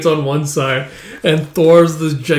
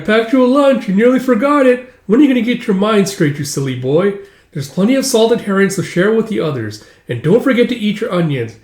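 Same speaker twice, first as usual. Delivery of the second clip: higher-pitched nagging mum; fussing mother; 6 semitones higher than usual. Acted. Mother sending her son off with lunch, fussing. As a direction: nag your boy as he leaves.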